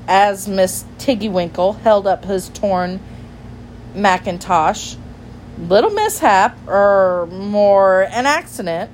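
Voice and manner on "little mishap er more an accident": lightly voiced flustered gentleman; a hint of embarrassed bluster; sheepish gentleman, blustering. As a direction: excuse the accident haltingly. Voices Jeremy Fisher explaining.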